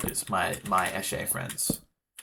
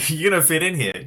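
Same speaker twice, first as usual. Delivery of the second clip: hammed-up villain; 7 semitones higher, 8 dB louder than usual. First take, loud hammed.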